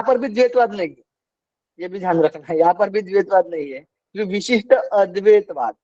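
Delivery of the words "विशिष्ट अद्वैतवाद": "विशिष्ट अद्वैतवाद" as two words, the initial अ clearly sounded; pronunciation demonstrated. Shown as a demonstration. Teacher showing students how to read it, pronunciation demonstrated. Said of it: "ऐसे पढ़ना".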